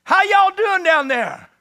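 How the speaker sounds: high, loud call down the hill, slow on the second line; shouting down. Retold or imitated. Jonathan calling down to the enemy soldiers, loud and high. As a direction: holler it down to the enemy camp. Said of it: "We're gonna shout down to 'em".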